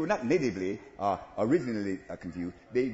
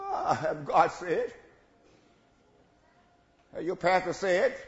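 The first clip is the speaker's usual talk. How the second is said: sly laughing devil, drawn out; lightly voiced tempter, louder and slow; devil's voice; 6 semitones higher, 5 dB louder, slower than usual. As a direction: plant doubt with a slow, louder taunt. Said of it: "old devil said".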